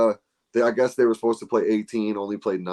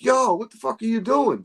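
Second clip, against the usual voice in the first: much higher, half-yelled outrage; retold yell; 12 semitones higher than usual. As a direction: call out the putter-spiker. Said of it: "Jay starts yelling at him".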